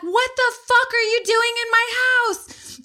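very high, outraged reenactment; retold panicked screaming. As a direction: replay screaming at intruders in high pitch. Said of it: "And I'm screaming at them".

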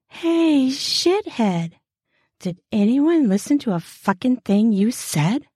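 honeyed taunting voice. Acted. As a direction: drip honey over the insult. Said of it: "sounds like honey dripping".

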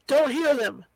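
mild yell to a mate; Bill yelling to Tom over the guns. Acted. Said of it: "Bill yelled to Tom".

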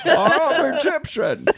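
laughing through the words; giggling out the line. Real, not acted. Laughing joke.

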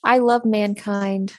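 slow, deadpan sarcasm; sarcastic. Real, not acted. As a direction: say it slowly with dry irony, then laugh. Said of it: "That was sarcastic".

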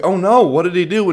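high, loud, playful alarm; mock concern. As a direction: react with exaggerated dismay to a child's drama. Acted alarm at the heartbreak.

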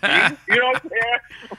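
talking through clenched teeth, high; mock actor, teeth clenched; Bokeem Woodbine through gritted teeth. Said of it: "Bokeem Woodbine talking through his teeth".

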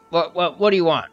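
high, loud challenge; irritable dirty vagrant. Acted. Dirty man confronts the approaching adventurers, irritable. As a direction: demand it like a bothered, toothless drifter.

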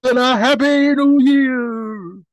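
big booming Santa laugh and greeting; hammed-up jolly Santa, high and loud.

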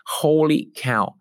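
slow, drawn-out American Holy cow again; light American accent on repeat. Shown as a demonstration. Coach repeating client's words, American accent. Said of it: "in my best American accent".

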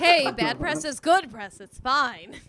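laughing quip about bad press; laughing joke. Real, not acted.

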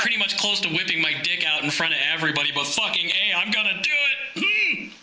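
hammed-up revving macho guy; lightly voiced braggart building to a boast; mock show-off truck guy. Truck guy trying to impress a hot chick, mock macho. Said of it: "is that bull-, what is it, that bullshit".

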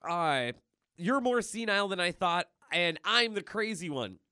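a quick mocking jab; Deadpool retort. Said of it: "he's just like".

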